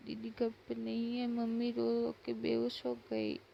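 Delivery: a child blurting out bad news through mild sobs; understated weepy little boy; mock crying child. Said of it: "तो रो रो के बोल रहा था".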